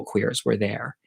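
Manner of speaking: breathy secret aside; a whispered aside about her queer friends. Real, not acted. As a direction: lean in and whisper it.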